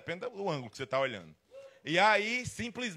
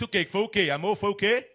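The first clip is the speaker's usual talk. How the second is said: louder, higher mock-indignant comeback; defensive protest; 3 semitones higher, 6 dB louder than usual. Man answers his fiancée about the shirts, loud defensive protest. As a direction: protest loudly, as if wrongly accused.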